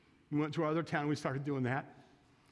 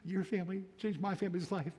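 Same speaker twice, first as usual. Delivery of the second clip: little voice; 3 semitones higher than usual. Retold or imitated. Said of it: "I wanna hear that little voice going".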